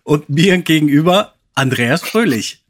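hammed-up podcast opener; show host intro. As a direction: open the show like a radio host.

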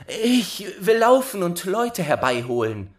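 put-on high-pitched girl's voice; helpful young girl. Rosenrot offers the stuck dwarf help, high and girlish.

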